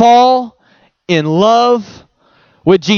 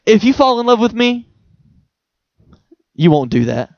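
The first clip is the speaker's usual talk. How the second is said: gentle Jesus voice. Retold or imitated. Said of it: "when Jesus is saying".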